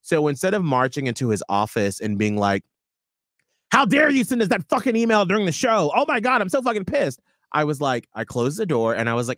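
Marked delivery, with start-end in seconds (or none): 3.7-7.2 mock furious rant. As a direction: play the indignant employee storming in. Hypothetical furious outburst at boss.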